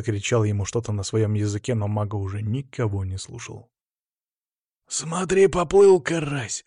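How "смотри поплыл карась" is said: higher, drawn-out gloating remark; amused smirk. A narrator's reading. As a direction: crow it slowly in a raised pitch. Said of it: "хмыкнул Игнат за моей спиной".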